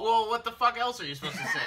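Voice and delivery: laughing incredulous protest; high, loud, laughing. Real, not acted.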